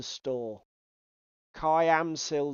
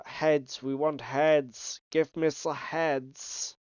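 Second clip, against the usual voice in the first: slow mock-German delivery; German accent; much slower than usual. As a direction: put on a German accent, drawn out. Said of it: "saying it in a German accent".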